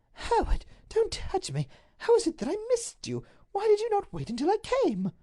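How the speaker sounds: high, loud recoiling cry; frightened duchess. Acted. Duchess shrinks from her husband, high and frightened. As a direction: pull away from him in alarm.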